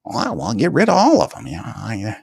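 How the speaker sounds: high, hammed-up tyrant ordering a purge; Mickey the tyrant. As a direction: bark it out like a mad king. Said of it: "he'll be a tyrant talking like, that's how he sound".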